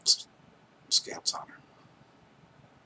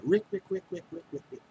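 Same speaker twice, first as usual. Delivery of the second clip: an exaggerated, pitched-up bird call; bird call imitation; 11 semitones higher than usual. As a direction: squeak the name like a tiny bird. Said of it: "sounds like that bird is saying".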